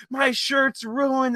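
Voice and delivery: high and slow, a mock wail over the ruined shirt; slow, high upset wail. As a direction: drag it out high like she's dismayed.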